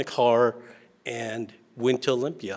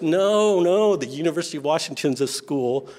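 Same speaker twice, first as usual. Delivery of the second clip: big sister correcting; 5 semitones higher, 4 dB louder than usual. Retold or imitated.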